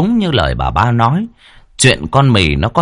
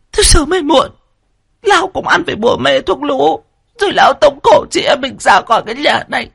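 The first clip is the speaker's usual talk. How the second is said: wailing lament. Acted. Third wife wailing to her sisters about being thrown out. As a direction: blubber and wail the complaint. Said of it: "mếu máo bù lu bù loa".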